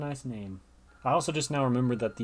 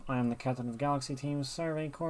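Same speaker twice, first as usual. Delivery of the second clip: Cillian; 2 semitones higher than usual. Acted. Captain introducing herself to a newcomer, put-on character voice. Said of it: "I'm not gonna do that voice anymore".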